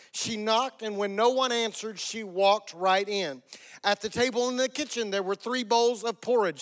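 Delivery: lively, slightly lifted storyteller voice; fairy-tale narration. Acted. Pastor retells Goldilocks to congregation, storytelling voice. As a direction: tell it to children as a bedtime tale.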